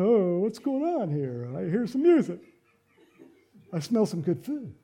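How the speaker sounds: lightly voiced oblivious fellow; a touch of clueless wondering; clueless older brother. Clueless son coming out of the fields, puzzled. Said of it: "then he got Mister Clueless".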